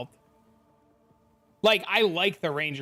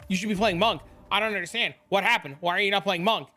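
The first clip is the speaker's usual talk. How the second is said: lightly voiced nagging chat, higher and rising; mock pestering players; 4 semitones higher, 4 dB louder, faster than usual. Streamer mimics players pestering him about the monk, mildly mocking. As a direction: rattle off worried questions, a hint of mock panic. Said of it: "I constantly get".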